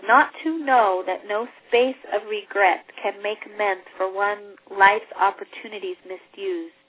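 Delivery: lightly voiced regretful ghost; Marley's ghost. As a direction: grieve over a wasted life. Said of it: "he says".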